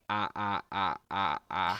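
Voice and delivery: short open "ah" grunts like coaxing a creature; offering food to a goblin, grunting "ah"; mock feeding grunts. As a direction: grunt "ah, ah" while pointing to the mouth. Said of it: "start pointing at my mouth and going".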